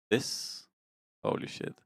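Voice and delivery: breathless whispered awe; awed whisper. Real, not acted. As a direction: whisper it in amazement. Awed at cool clothing.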